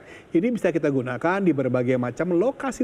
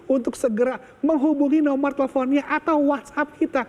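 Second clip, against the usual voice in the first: infomercial; 3 semitones higher than usual. Acted. Infomercial hard sell.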